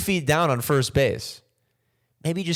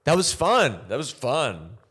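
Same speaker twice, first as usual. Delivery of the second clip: insincere brush-off. Retold or imitated. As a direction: promise to text but mean never. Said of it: "You go".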